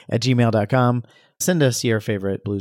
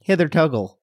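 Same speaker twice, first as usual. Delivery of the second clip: put-on amateur Chicago accent, a bit higher; 4 semitones higher than usual. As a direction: try it like a Chicagoan. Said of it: "we haven't done a single Chicago accent".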